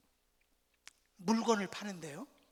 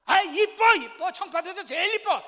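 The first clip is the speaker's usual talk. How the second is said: much louder, higher annoyed shout; irritated husband yelling; 8 semitones higher, 17 dB louder than usual. Retold or imitated. Husband yelling at his wife who keeps asking if she is pretty, annoyed shout. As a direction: snap the compliment back in exasperation. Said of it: "억양을 틀어버려가지고".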